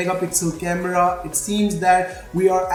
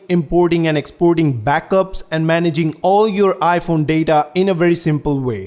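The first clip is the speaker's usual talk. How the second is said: louder, punchy promo delivery; loud, emphatic sponsor spot; sponsor ad read; 5 dB louder than usual. Acted. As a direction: read it out as a loud product plug. Reads a sponsor ad.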